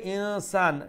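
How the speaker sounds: ইনসান with the n softened into a held hum; ikhfa demo. Shown as a demonstration. Teacher explaining nun sakin, ইনসান with a held nasal n. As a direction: linger on the hidden n of ইনসান. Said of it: "নুন সাকিন ইখফা".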